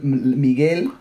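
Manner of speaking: "Miguel" slipping into an American accent; an American accent on the name. Real, not acted. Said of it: "went into my American mode for a second".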